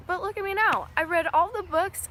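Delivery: real pride breaking through; proud. Real, not acted. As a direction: show off how far you've come. Proudly recounts her reading success.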